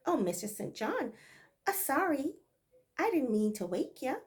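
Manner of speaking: light Bajan dialect apology; a hint of Barbados speech, apologetic; Bajan accent. Maid apologizing to her mistress in Bajan dialect. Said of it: "this is Bajan dialect".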